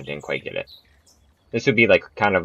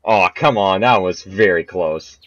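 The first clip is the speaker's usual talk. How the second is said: frustrated outburst; 5 dB louder than usual. Real, not acted. Near miss in golf game.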